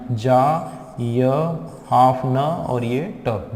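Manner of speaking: "जा, य, न, ट" as separate sounds with gaps; sounded out. Shown as a demonstration. Teacher sounding out giant for students, each of "जा, य, न, ट" said separately. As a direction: break giant into "जा", "य", half "न", "ट". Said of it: "और sound कैसा रहा".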